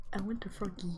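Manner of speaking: whispered little wish for a froggy. Acted. Player whispering her wish for a froggy to herself. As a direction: hush it out like a child's wish.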